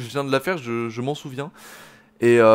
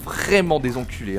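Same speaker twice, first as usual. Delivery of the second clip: ordinary talk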